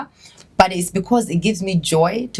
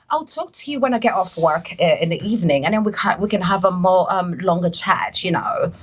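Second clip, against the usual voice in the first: British accent impression. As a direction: imitate the sister's polished phone voice. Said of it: "alina engeri gy'ayogeramu".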